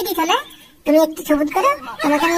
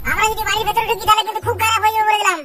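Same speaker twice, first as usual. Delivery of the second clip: angry calling out; 5 semitones higher than usual. Acted. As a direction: threaten them through the door. Angry neighbours calling at door.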